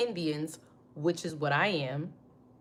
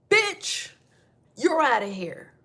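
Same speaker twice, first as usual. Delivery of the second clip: mock dismissal; 6 semitones higher, 4 dB louder, slower than usual. Dismissing a rival, loud.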